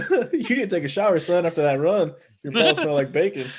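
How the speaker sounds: mock scolding through laughter; teacher voice, cracking up; laughing mock teacher.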